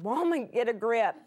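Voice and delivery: mock scolding. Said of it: "I know you're thinking".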